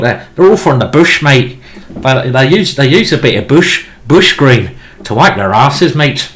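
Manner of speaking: a hammed-up, lightly done Australian accent; mock Aussie bloke, only half committed; terrible Australian accent. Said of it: "It's a terrible Australian accent".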